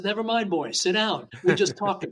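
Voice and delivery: lightly voiced older man brushing it off; dismissive elder. Older Hawaiian master tells the young man to sit, mock dismissive. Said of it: "he says".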